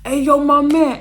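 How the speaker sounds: hearty hey yo to a waiter; loud bro greeting. Retold or imitated. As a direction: call the waiter over like a pal. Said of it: "He like".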